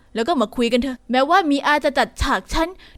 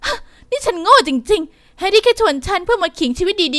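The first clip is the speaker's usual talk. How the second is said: crying; 3 semitones higher than usual. Acted. Heroine realizes date mocked her.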